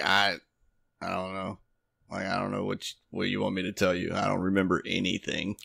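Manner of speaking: put-on hushed, hazy, sedated-sounding, very quiet creaky mumble. Retelling how a man answered questions about the past year, imitating someone sedated. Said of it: "he says it in the most like sedated manner".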